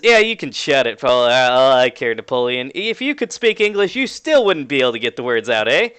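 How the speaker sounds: lightly voiced Canadian retort; Canadian-accented jab. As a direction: bicker in a mild Canadian accent. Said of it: "Canadian accent saying".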